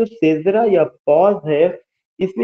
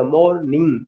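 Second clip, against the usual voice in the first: मॉर्निंग in two parts, मॉर unstressed and निंग stressed; stress on second syllable. Shown as a demonstration. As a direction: split मॉर्निंग and lean on निंग. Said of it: "मॉर पे उतना नहीं". (मॉर्निंग में मॉर हल्का, निंग पर ज़ोर)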